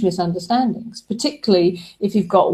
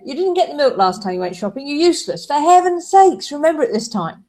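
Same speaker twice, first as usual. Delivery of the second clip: rising exasperated scold, higher and faster; mock the nagging partner; hammed-up irritated wife; imagined nagging rebuke; 6 semitones higher than usual. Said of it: "they might hear".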